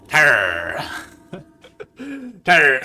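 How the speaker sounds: loud growled pirate word with a high laugh; Barbossa pirate voice. Acted. Drafter slipping into Barbossa voice, loud growl then laughing. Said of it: "My pirate, pirate voice just comes through".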